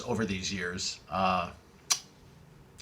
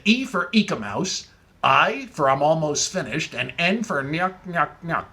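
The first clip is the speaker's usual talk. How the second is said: slow spelling. Retold or imitated. Caller spelling slowly.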